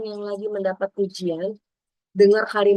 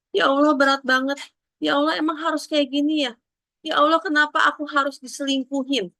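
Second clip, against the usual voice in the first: pleading prayer; 5 semitones higher than usual. Retold or imitated. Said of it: "bertanyalah sama Allah".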